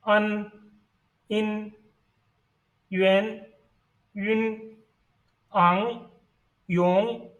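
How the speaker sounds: isolated Chinese finals, one by one; pronunciation demo of finals. Shown as a demonstration. Teacher reads the second set of finals, demonstrating pronunciation. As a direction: say each final as a separate held syllable. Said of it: "Let's see the finals".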